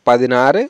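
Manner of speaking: পাদিনারে ending in a long aa-re; careful model পাদিনারে; are ending. Shown as a demonstration. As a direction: draw out the aa in পাদিনারে. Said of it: "আরে উচ্চারণ হবে এখানে".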